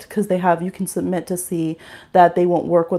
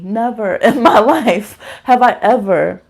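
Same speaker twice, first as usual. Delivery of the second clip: laughing; 6 dB louder than usual. Real, not acted. Laughing disbelief at story.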